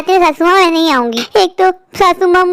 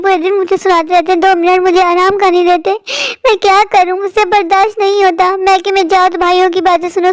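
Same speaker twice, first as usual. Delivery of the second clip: slightly raised, self-pitying plaint; woeful lament; 2 semitones higher than usual. Acted. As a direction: lament your hard lot to God. Wretched daughter-in-law laments to God. (दुखड़ा रोते हुए फ़रियाद)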